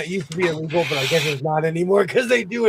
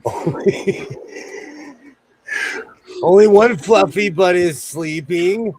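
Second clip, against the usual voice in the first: ASMR voice; 3 semitones higher, 7 dB louder, slower than usual. Pretend. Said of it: "my A S M R voice".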